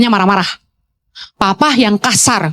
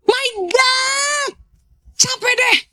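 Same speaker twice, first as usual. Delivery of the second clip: exasperated groan; 12 semitones higher, 7 dB quieter, slower than usual. Real, not acted. Exasperated by name rules.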